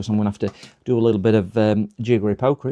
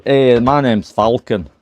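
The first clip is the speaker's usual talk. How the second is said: imitating Falcon; 5 dB louder, slower than usual. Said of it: "Is that how you do it?".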